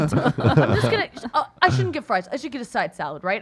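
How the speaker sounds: laughing, hesitant put-on voice of the friend; a mild laughing impression of the friend; imitating Phil. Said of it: "I know you're so good at voices".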